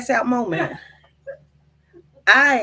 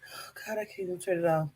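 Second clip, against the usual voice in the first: panic; 6 semitones lower, 12 dB quieter, much faster than usual. Real, not acted. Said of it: "I'm in a panic".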